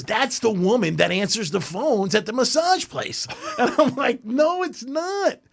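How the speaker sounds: half-laughing retold exchange. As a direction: giggle through the quotes. Friend claims to recognize her.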